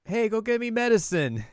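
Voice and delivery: high-pitched bossy call; mock bossy request. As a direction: order it in a high put-on voice. Retold errand for little brother.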